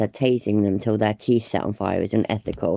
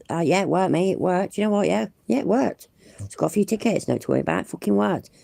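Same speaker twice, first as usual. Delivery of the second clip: higher, gloating mock bloke bragging; smug sovereign citizen; 5 semitones higher than usual. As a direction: crow like a smug driver who got away with it. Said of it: "telling them all how".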